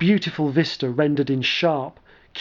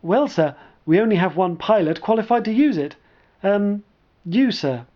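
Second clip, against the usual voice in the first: nervous; 5 semitones higher than usual. Acted. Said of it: "Sark coughed nervously".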